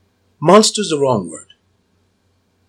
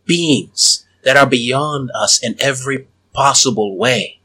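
persuasive cultist. Acted. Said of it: "I'm gonna start using my hypnotic voice".

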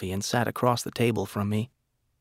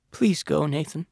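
tearful plea; 4 semitones higher than usual. A narrator's reading. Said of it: "She was sobbing".

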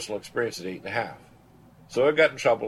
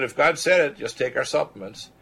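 insistent retort; 5 semitones higher, 5 dB louder than usual. Retold or imitated. Retold exchange with a cancer patient.

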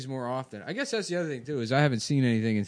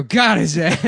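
put-on loud cackling old lady; grandma voice; 3 semitones higher, 10 dB louder, slower than usual. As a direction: shout it like a rowdy grandma. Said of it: "you can hear the grandma go".

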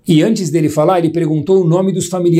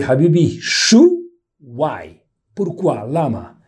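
light imitation of a perplexed Middle Eastern orator; puzzled orator; much slower than usual. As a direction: play the baffled orator pressing the mourner. Orator asks the weeping brother why.

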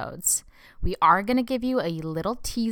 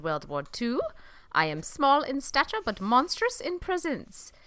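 bad German accent. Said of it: "This is a terrible accent".

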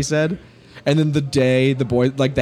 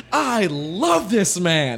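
adoring; 4 semitones higher, much slower than usual. Retold or imitated. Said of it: "I was like".

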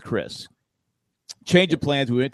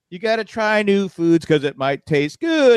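slow, lightly raised coaxing line; singsong teacher line; 5 semitones higher, 4 dB louder, slower than usual. Retold or imitated. Dad coaxing his son to try crackers, slow singsong. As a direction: coax a toddler with the show's line. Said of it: "I go".

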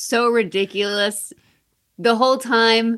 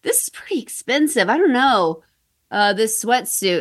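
hesitant customer voice; 3 semitones higher than usual. Retold or imitated. Imitating hesitant shoe customer.

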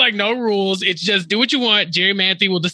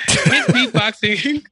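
laughing; 2 semitones higher, much slower than usual. Real, not acted. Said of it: "laughing mid-sentence".

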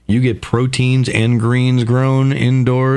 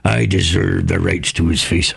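parrot voice; 7 semitones lower than usual. Pretend. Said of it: "talking like a parrot".

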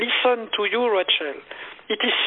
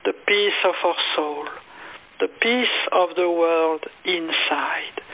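guided meditation. Retold or imitated. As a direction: breathe the words out gently as you guide her into calm. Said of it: "I say".

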